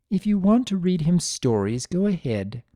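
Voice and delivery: tightly held patience, barely civil; mother holding back irritation; a touch of strained patience. Acted. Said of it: "said with strained patience".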